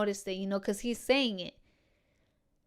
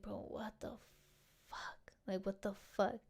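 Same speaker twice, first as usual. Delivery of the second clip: hushed, breathy whisper of disbelief; shocked whisper; 15 dB quieter than usual. Retold or imitated. Hearing he'll be around, whispering her disbelief. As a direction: whisper it as if he might overhear.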